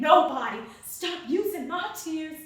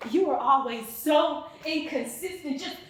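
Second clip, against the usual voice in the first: louder, building to a raised voice; angry accusation; 6 dB louder than usual. Acted. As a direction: throw the blame at them, getting louder. Accusing a partner in monologue.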